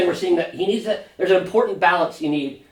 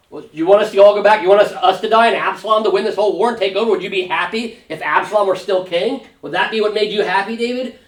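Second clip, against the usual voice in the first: fired-up challenge; 3 semitones higher than usual. Retold or imitated. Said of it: "he's really fired up and probably really giving it to David".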